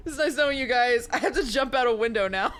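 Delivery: lightly voiced cute girl; a hint of a girly voice; high cute anime girl. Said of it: "You don't like that voice?".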